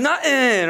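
nothing said as nuh-in, t swallowed; nothing with the th dropped; Philly nothing. Retold or imitated. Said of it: "What's, what's going on".

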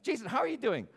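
high-pitched, put-on friendly hello; hearty greeting. Preacher mimicking church small talk, hearty greeting. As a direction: greet a friend with exaggerated cheer.

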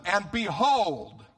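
BEHOLD drawn out slow, high and loud; dramatic "behold". Acted. Preacher reading verse thirty-seven aloud, dramatic stretched "behold". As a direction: proclaim "behold" slowly, pitch and volume lifted. Stressing Luke's attention-grabbing word.

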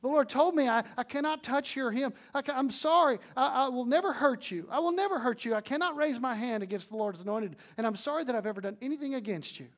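loud, high, earnest cry across the cave; yelling plea. Retold or imitated. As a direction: call out an apology to the king. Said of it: "he yells to his master".

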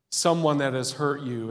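ordinary talk, nothing marked

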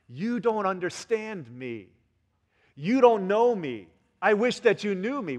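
drawn-out, emphatic mock complaint; aggrieved child. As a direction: stretch it out like a misunderstood kid. Acts out hurt child to parents.

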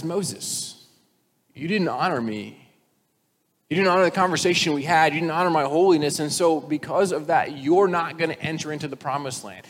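a lightly voiced stern God; God rebuking. God rebuking Moses for striking the rock, stern. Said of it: "And then God says".

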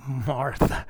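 soft, low, tender calling of the name; quiet affectionate chiding; gentle endearment. Shown as a demonstration. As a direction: say the name fondly, without scolding. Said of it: "I think he said it like that".

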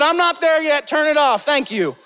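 preacher retelling his playful order; mock command. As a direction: tell them to cut the track, half-joking. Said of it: "But I said".

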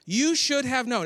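a hint of a chiding Matthew. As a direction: gently scold the listener. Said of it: "it's almost like he's like".

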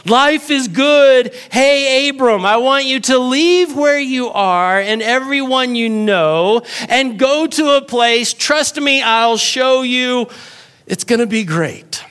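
breezy divine pitch, like a friendly boss; a hint of a cheerful God making an offer; voicing God. Preacher voices God calling Abram.

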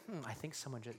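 the gentle way he did not say it; soft musing. Shown as a demonstration. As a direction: wonder aloud to yourself. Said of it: "he didn't say, like".

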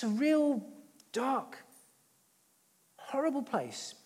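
breathy whisper on the dread. Real, not acted. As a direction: let the words sink to a whisper of dread. Describing the dark place.

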